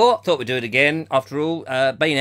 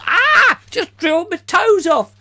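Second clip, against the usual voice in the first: high, loud hammed-up scream of pain; hammed-up yell as if toes drilled off; mock scream; 13 semitones higher, 6 dB louder than usual. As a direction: fake a drilling accident, yelling. Pretend drill accident.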